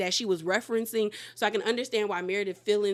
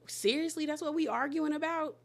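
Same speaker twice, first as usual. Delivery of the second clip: higher, slightly softer disbelief; mock incredulous; 5 semitones higher, 4 dB quieter than usual. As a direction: imitate someone baffled by a petty row. Retold incredulous confessional remark.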